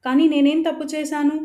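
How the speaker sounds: hurt, furious protest at her brother; shocked and angry after being slapped. Acted. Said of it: "అన్నయ్య వైపు కోపంగా".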